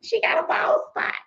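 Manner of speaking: sudden high squeal of a shocked viewer; high mock gasp of a shocked viewer; mock gossiping viewer. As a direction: squeal it like a scandalized onlooker. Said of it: "ain't looked at the screen and said".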